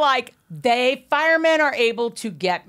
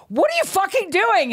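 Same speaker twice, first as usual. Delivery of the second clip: exasperated; 10 semitones higher than usual. Retold or imitated. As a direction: demand it, exasperated. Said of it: "I'm like".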